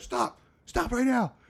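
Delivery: commanding bark, very high pitched. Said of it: "I'm barking at these guys".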